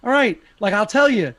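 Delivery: high, loud, rushed stoner pleading; panicked stoner. Retold or imitated. Brad Pitt's stoner pleading with gangsters, high and loud. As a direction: stoner backing off fast and high. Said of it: "He's like".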